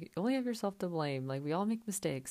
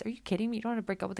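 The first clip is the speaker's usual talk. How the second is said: higher and louder, fed-up; exasperated disbelief; 6 semitones higher, 4 dB louder, much faster than usual. Real, not acted. Ranting about Danielle's engagements, exasperated high outburst. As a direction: scoff at how ridiculous it is.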